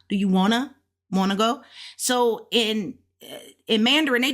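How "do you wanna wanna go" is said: "wanna" blended into one word; everyday contracted "wanna", no separate "to"; relaxed question with "wanna" run together; casual wanna. Shown as a demonstration. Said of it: "we flip not want to, but wanna".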